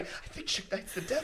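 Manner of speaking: hushed, conspiratorial stage whisper; imitating a secret, awed aside; retold whisper. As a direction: confide it in a whisper. Retold confiding aside to colleague.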